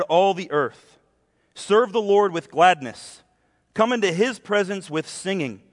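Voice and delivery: measured, emphatic psalm reading; deliberate public Bible reading with falling cadences; scripture reading. Acted. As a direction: read the psalm aloud to a congregation, phrase by phrase.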